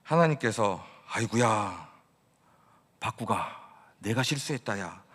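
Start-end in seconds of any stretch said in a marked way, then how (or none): 1.1-5.0 mock apologetic God. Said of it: "이렇게 말씀하신 것이 아니라".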